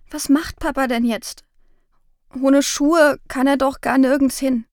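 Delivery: put-on a worried child about to cry; close to tears. Girl asks her mother about father, lightly tearful. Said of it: "Meine Stimme klang jetzt auch, als würde ich gleich weinen".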